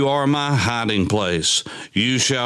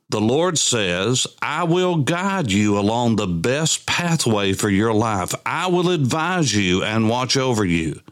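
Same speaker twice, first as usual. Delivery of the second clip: scripture reading. Acted. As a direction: read the psalm aloud, drawing out the line endings. Reads psalm aloud.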